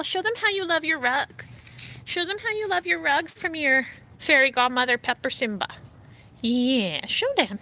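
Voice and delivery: high, sing-song coaxing; high cat talk. Real, not acted. Owner coaxing her cat to roll on the rug. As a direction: coax the cat to show off.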